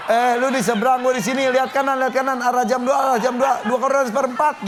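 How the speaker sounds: lightly voiced chatty phone caller; mock phone call. Host acting out a phone call to a friend, lightly playful. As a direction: play it like you're on the phone guiding a friend.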